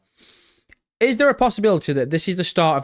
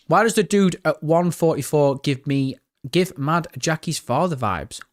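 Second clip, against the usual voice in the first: ordinary talk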